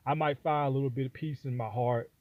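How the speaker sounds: normal talking voice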